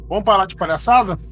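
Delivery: a hint of a stern exorcist ordering the spirit; father cutting off the spirit, mildly stern. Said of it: "Desse jeito".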